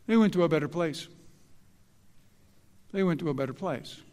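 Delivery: quick, lightly mocking they went to a better place; mocking platitude. Preacher mimicking secular mourners, quick and mocking. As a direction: toss the cliché off glibly. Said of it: "what do they say?".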